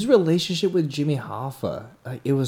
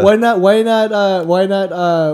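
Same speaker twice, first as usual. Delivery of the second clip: excited stammer; 8 semitones higher, 7 dB louder than usual. Real, not acted.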